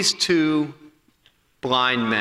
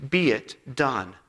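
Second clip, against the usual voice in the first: hushed blessing; 2 semitones lower than usual. Acted. Pastor blessing the congregation with the verse, hushed and slow.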